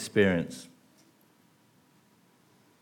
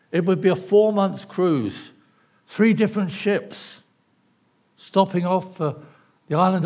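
lightly pitched mock holiday advert, a little raised; upbeat cruise advert; 3 semitones higher than usual. Preacher advertising Paul's voyage as a cruise, upbeat mock advert. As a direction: sell it positively, like a cruise brochure. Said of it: "advertise this cruise in a very positive way".

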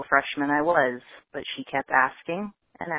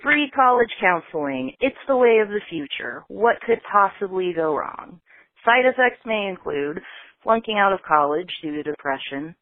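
high, loud mock commercial pitch; sarcastic ad voice; 4 semitones higher, 3 dB louder than usual. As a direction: sell it like a cheesy ad.

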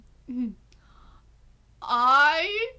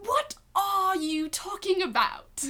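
slow, high, lightly raspy Louis voice; imitating Louis; 4 semitones higher, slower than usual. Friend imitating Louis dodging a question, lightly raspy and high. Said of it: "What else does he say?".

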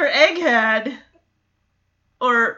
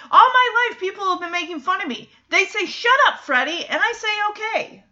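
heartfelt speech; 5 semitones higher, faster than usual. Retold or imitated. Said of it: "such a good speech from Freddy".

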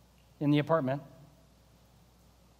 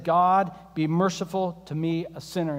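humble plea; 2 semitones lower than usual. Retold or imitated. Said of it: "He beat his breast and he said".

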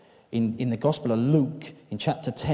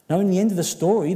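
loud emphatic opening; 8 semitones higher, 8 dB louder, faster than usual. Real, not acted. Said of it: "restarts line louder".

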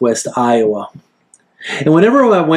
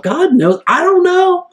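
inner thought; 9 semitones higher than usual. Retold or imitated. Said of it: "thinking to himself".

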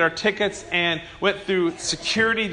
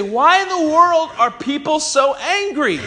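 exasperated question; 7 semitones higher, slower than usual. Retold or imitated. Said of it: "you say".

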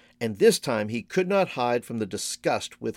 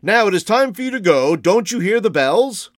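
high, loud, ringing voice; excited old man calling time; old shopkeeper's send-off; 7 semitones higher, 7 dB louder than usual. A narrator's reading. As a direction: shoo him out, slowing at the end. Shopkeeper sends the man away.

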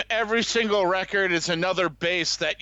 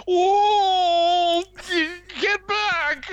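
high, loud yelp; yelling; 13 semitones higher, 4 dB louder, much slower than usual. Retold or imitated. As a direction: shout at the crowd. Drunk fan yelling.

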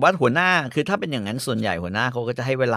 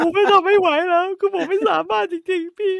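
high, whiny imitation of a crying employee; mock crying plea. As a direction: wail it like someone breaking down in tears. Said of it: "มีบางคนน่ะมาร้องไห้".

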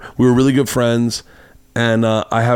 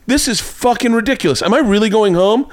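high, disbelieving complaint; mock indignant whine; 11 semitones higher than usual. Woman at the threshold complaining, indignant.

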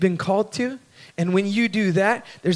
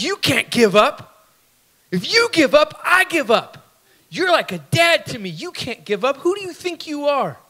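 higher, urgent pleading; 6 semitones higher than usual. Retold or imitated. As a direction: beg him not to quit, voice up high. Son pleading with mentor.

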